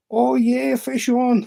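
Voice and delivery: high, loud triumphant call; imitated whoop of excitement; excited cheer. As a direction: re-enact hooking a fish. Acts out excited catch call.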